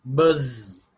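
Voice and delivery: drawn-out buzz with extra punch; honeybee buzz. Shown as a demonstration. Teacher showing onomatopoeia to learners, honeybee buzz. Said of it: "like a honeybee".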